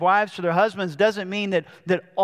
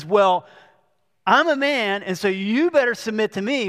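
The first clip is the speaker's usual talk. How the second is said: put-on cocky teen boy. Teen boy ordering girls at youth game time, mock cocky swagger. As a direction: imitate a puffed-up boy laying down the law. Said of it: "he says".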